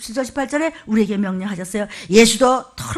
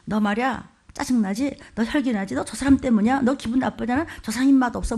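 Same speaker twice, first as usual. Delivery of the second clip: tempting whisper; 3 dB quieter than usual. Acted. Pastor voices the evil spirit whispering doubts, a soft sly murmur. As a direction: coax quietly, like a voice slipping into the mind. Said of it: "별별 나쁜 소리 다 해".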